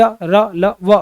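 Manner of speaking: short, soft letter sounds; quickly said letters. Shown as a demonstration. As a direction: say य, र, ल, व short, without dragging. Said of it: "जल्दी बोल दिए जाते हैं".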